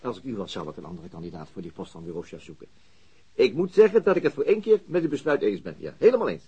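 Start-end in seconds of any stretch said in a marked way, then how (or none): 3.3-6.4 sarcastic. Acted. Sarcastic agreement with chief.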